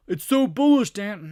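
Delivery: high, loud gushing imitation; mock bullish follower. Follower gushing to the trader about a stock, mocking. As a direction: squeal it like an over-eager fan.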